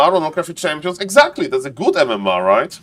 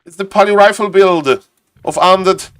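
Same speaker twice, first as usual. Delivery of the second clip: a clearly higher caster voice that stays up; odd put-on voice; 5 semitones higher than usual. Real, not acted. Streamer stuck in a put-on voice after the spell name, higher pitched. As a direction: slip into a strange lifted voice without noticing. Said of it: "I don't know why I'm talking like that".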